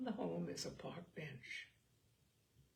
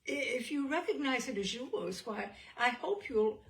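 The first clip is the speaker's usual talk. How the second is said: hurried, nervous excuse with a little laugh; flustered apology; 2 semitones higher, 3 dB louder than usual. Acted. Umbrella man backing down before the policeman, flustered and apologetic. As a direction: stumble over the excuse, embarrassed. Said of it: "The ex-umbrella man retreated".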